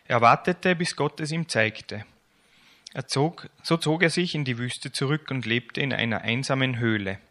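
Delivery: lebhaft erzählend vorgelesen, lauter als sein Gespräch; erzähl es wie für Kinder beim Vorlesen; Vorlesen aus der Kinderbibel. A narrator's reading. Reads children's Bible aloud. (lebendige Kinderbibel-Lesung)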